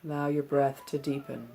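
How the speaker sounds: calm, measured meditation instruction with long pauses; unhurried meditation-teacher delivery; guided meditation. Acted. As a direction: guide them gently into stillness, leaving space between phrases. Leads a seated breathing meditation.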